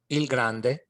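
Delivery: "il grande" repeated plainly in Italian; Italian word. Shown as a demonstration. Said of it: "meaning the big one".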